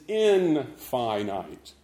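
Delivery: infinite as in-FY-nite, slow, long I's; lengthened I sounds. Shown as a demonstration. Preacher describing God, infinite with lengthened I sounds. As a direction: draw out infinite as in, then FY-nite. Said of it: "Lengthen those I sounds".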